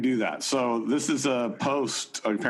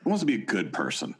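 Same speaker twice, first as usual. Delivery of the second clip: higher, upbeat pitchman voice; John Dehlin voice; 5 semitones higher than usual. Acted. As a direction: sell it like an eager podcast host. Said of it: "in your John Dehlin voice".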